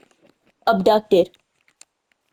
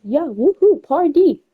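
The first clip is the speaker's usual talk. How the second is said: mock party cheer, swooping higher; party whooping; 5 semitones higher, 3 dB louder, slower than usual. Retelling a rapper at that party, mock excited whooping.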